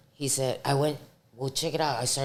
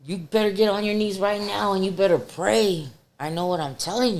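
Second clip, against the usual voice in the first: grandma shouting; 6 semitones higher, 4 dB louder than usual. Retold or imitated. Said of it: "she screamed real loud in Spanish".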